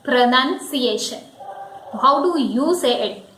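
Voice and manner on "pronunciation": PRONUNCIATION said pruh-nun-see-AY-shun, NUN in the middle; correct pronunciation. Shown as a demonstration. Teacher introducing the first word, correct pronunciation. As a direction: say PRONUNCIATION with a short "nun", not "noun". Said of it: "the first word of the day".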